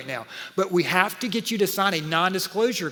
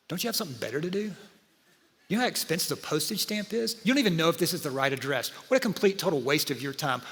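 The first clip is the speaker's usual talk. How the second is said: nagging inner voice. Retold or imitated. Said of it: "there's another voice in my head".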